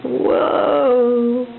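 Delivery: excited whoa. Shown as a demonstration. Repeating word for baby.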